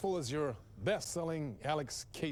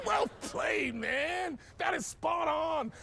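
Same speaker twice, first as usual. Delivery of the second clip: excited laughing praise; 9 semitones higher, much slower than usual. Acted. Host praising the writer's supposed prank, excited. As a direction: laugh then cheer, pitch raised.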